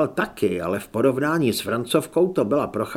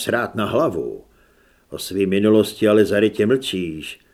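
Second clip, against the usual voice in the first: lightly voiced lower man's part; probing Zed; 3 semitones lower, 5 dB louder than usual. Zed questions Holly about her hidden past, probing. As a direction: press her, low and a little firm.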